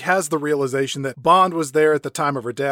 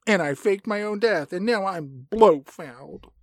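Blofeld. Acted. Blofeld telling his childhood story, drawling villain impression. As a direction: draw out the backstory in a put-on voice. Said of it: "sounds a little like Droopy Dog".

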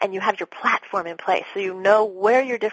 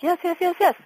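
mock begging; 10 semitones higher than usual.

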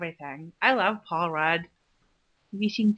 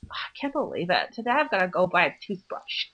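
imitating a whiny girl; 3 semitones lower than usual. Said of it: "That was one thing she actually said".

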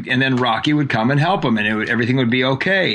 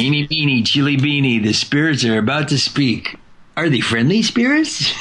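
Boris impression; 3 semitones higher than usual. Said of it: "remember Boris?".

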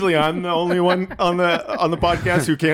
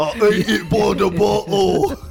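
mock Tyson; 4 semitones higher, slower than usual. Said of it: "Mike Tyson?".

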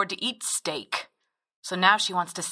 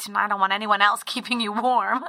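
laughing. Acted.

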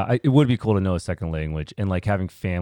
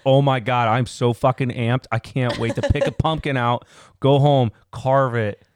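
mock excitement; 4 semitones higher, 3 dB louder, slower than usual. Mocking an excited guy.

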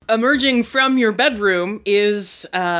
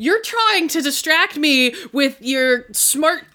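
indignant protest; 5 semitones higher than usual. Acted. Acted quarrel over man in bathrobe.

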